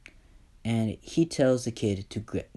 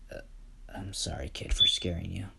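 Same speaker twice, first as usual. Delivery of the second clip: soft apology; 3 semitones lower, 5 dB quieter, faster than usual. Acted. Izuku feels compassion.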